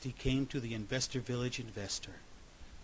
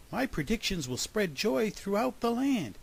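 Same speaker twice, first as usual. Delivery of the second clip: joyful pride; 9 semitones higher than usual. A narrator's reading. Groundhog delighted with his predictions.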